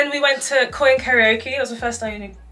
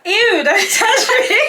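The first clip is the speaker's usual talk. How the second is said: mock disgust; 11 semitones higher, 9 dB louder, slower than usual. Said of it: "I'm not gonna be like".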